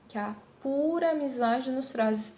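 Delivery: weak E, stronger A in "que a"; sinalefa. Shown as a demonstration. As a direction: glide "que" into the A of "que a pura". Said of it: "pronuncio com mais intensidade o A". ("que a" ligado, com o A mais forte)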